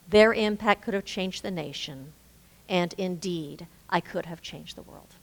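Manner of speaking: measured recitation, phrase by phrase; poem reading. Acted. Speaker closes by reading a poem, measured recitation.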